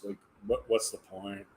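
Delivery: words stretched through a yawn. Real, not acted. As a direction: talk mid-yawn, sleepy. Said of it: "Yeah, I'm yawning".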